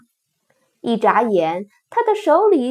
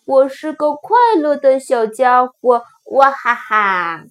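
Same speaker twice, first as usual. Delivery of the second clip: laughing cheer; 4 dB louder than usual. Acted.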